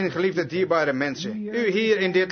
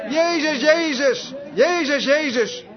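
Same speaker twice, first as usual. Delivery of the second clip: high, repeated calls on the name; imitated cry; 8 semitones higher, 4 dB louder, slower than usual. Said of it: "Op die manier". (nagedane hoge, herhaalde uitroep)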